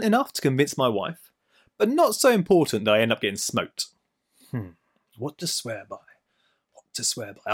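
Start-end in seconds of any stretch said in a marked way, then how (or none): 4.5-6.0 mock musing. Pondering aloud in mock scheme. 6.7-7.5 mock musing. Pondering aloud in mock scheme.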